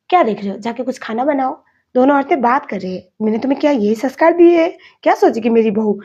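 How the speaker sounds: aunt scolding her nephew in front of the bride, indignant. Retold or imitated. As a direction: order him into the kitchen, scandalised.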